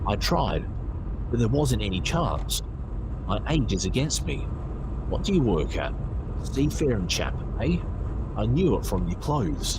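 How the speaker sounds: a hint of a worn-out Cockney labourer, chatty; old docker. Old docker talks to narrator.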